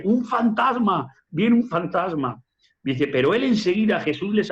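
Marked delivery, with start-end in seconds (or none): 0.0-2.4 slow cries, starting high and easing down; imitated frightened cries. A narrator's reading. Preacher quotes disciples who see a ghost coming, imitated frightened cries. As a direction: stretch each cry out in mock alarm. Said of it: "dice que gritaban y decían".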